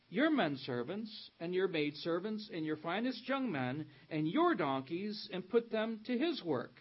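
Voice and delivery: emphatic, projected Bible reading; scripture reading. Real, not acted. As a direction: read the prophet's warning out to a congregation. Reads scripture aloud to congregation.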